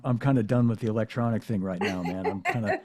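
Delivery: chuckling while quoting Jeff's reply; laughing through the quote. Retold or imitated. Guest quoting Jeff on electronics, through a laugh. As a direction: let a laugh slip into the words, relaxed.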